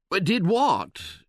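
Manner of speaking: high, innocent exclamation; mild mock surprise; exclaiming. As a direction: protest your innocence, startled. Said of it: "exclaimed George and I".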